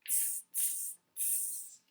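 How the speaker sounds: soft whispered tss sounds; monkey tsk-tsking. Acted. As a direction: tsk back like cheeky monkeys. Monkeys mock back.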